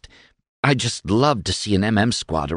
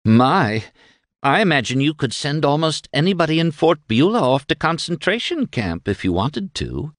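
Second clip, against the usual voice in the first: coy woman character, pitched higher; purring flattery; 6 semitones higher than usual. A narrator's reading. Flattering Shad about his power, a coy purr. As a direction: purr admiringly at a powerful man. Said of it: "she purred".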